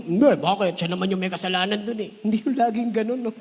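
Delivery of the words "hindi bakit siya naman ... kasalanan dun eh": defensive excuse. Retold or imitated.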